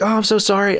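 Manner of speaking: imitated apology. Joe apologizing, hands up.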